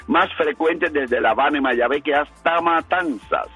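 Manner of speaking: steady radio forecast read; weather forecast read. Acted. Reads the weather forecast on air.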